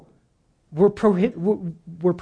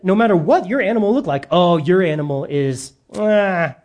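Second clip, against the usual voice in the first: mock temple vendor. Temple seller steering buyers to his pre-approved animals, hammed-up sales pitch. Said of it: "And they said".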